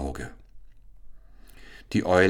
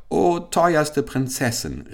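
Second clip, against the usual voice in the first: high, slow, pleading call; eager cry; 8 semitones higher, 3 dB louder, slower than usual. Acted. Caliph calls out eagerly to the owl princess, high and drawn out. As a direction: reach out to her with longing. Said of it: "rief der Kalif".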